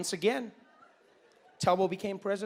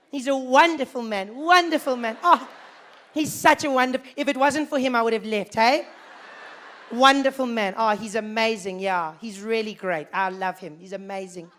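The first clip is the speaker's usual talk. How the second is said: gushing convert; 2 semitones higher, 5 dB louder than usual. Retold or imitated. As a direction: lay the praise on thick. Same emigrants now praising Mandela.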